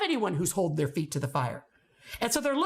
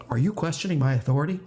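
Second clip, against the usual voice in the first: indignant teacher; 6 semitones lower, 4 dB louder, faster than usual. Retold or imitated. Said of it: "I hear teachers saying this".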